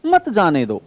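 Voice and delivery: मत जाने दो as one separate falling phrase; phrase after comma. Shown as a demonstration. Teacher finishing the stop-him reading, मत जाने दो grouped. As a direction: keep "मत" tied to "जाने दो", set apart by a pause. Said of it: "यहां comma लगा दूं".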